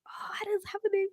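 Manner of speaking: quick panicked whisper. Retold or imitated. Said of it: "I was like".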